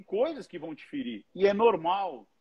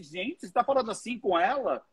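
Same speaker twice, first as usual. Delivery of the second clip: mock shocked bystander; 5 semitones higher than usual. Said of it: "As pessoas assim".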